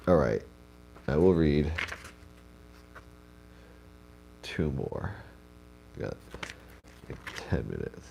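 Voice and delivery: blocked nose, stuffy speech; congested. Real, not acted. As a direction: talk through a congested nose. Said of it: "I sound congested".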